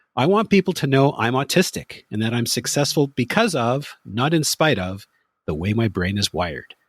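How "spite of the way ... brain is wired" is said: normal talking voice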